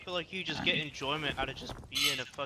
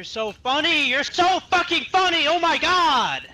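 sarcastic; 12 semitones higher, 12 dB louder, slower than usual. Real, not acted. Sarcastic yelling at the troll.

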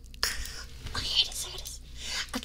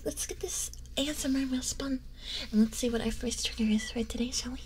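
ASMR whisper; 3 dB quieter than usual. Acted.

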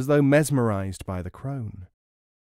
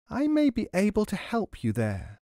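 sly hag; 9 semitones higher than usual. A narrator's reading. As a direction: dangle the offer like bait. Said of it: "said the hag".

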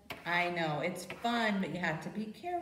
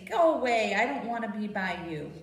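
annoyed bear; 4 dB louder, faster than usual. Pretend. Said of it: "That means".

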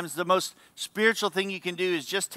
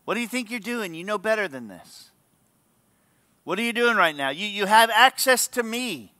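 mild scolding in insistent questions; confronting God; 3 semitones higher than usual. Acted. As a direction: take them to task, lightly exasperated. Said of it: "God talks to you that way".

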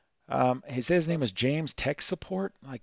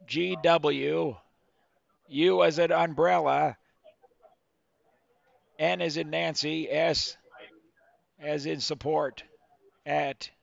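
dictating to slow typist; slower than usual. Acted. Spelling email to scam caller.

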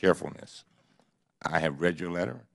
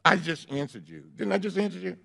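exasperated; 11 semitones higher than usual. Real, not acted. Chairman irritated, interrupted.

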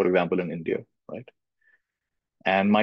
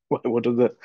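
laughing. Real, not acted.

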